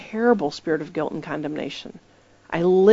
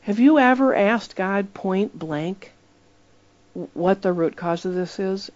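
gentle. Retold or imitated. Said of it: "So I said gently".

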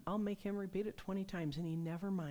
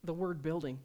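candid demo; 4 dB louder than usual. Shown as a demonstration. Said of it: "Just say".

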